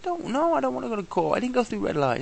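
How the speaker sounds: high pleading protest; mock pleading. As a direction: beg off going to court. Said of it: "I'm like".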